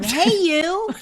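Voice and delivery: joking about how to address Prince; casual call. Retold or imitated. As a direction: call out to him playfully. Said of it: "I'd be like".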